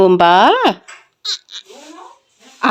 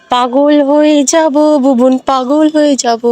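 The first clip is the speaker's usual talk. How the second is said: imitating Bubun; 2 semitones higher, slower than usual. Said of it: "Bubun বলবে".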